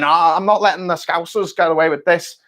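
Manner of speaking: put-on a barely-there Manchester accent; half-hearted attempt at a Manchester accent; bad Manc accent. Mancunian rival refusing to let Liverpool win, faint Manchester accent. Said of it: "That's a terrible Manc accent".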